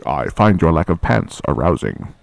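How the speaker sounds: a hint of Darth Vader menace. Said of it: "the voice changer so you could do the".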